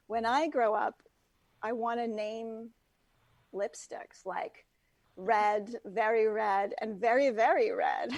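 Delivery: lightly voiced Valley Girl, slow and trailing; a hint of a dreamy teen Valley Girl. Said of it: "so Valley Girl voice, if I could do one".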